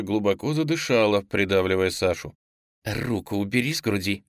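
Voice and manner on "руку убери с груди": angry hiss. Acted. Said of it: "злобно процедила она".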